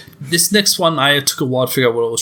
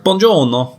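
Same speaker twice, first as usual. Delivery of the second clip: Italian with American accent; 4 semitones higher, 4 dB louder than usual. Shown as a demonstration. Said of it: "So, like".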